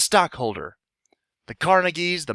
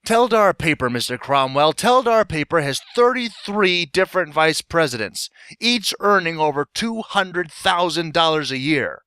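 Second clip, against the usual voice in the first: forceful accusation; 3 semitones higher than usual. Acted. Shareholder attacks the company's management before stockholders, accusing. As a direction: hammer the charge home to the room.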